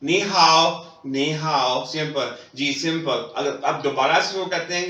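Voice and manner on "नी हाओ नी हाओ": नी हाओ को चीनी अभिवादन की तरह धीरे बोलते हुए; नी हाओ, हर शब्द अलग-अलग; Chinese greeting. Shown as a demonstration. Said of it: "वो रिप्लाई आपको नी हाओ देगा". (चीनी में नमस्ते कहने का नमूना)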